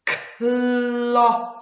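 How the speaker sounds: Cloth slowly, sounds pulled apart; slow exaggerated speech modeling. Shown as a demonstration. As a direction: segment Cloth, each sound held. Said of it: "modelling the word".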